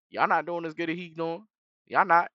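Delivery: heated, punchy retort; emphatic outburst. Real, not acted. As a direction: call them out hard. Angry rant at online commenters.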